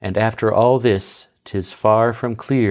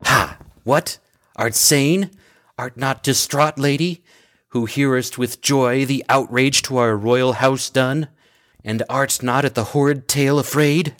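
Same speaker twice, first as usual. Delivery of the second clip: high, aghast questioning; shocked disbelief; 3 semitones higher than usual. Acted. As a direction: recoil in horror at her gladness. Messenger shocked at Medea's joy.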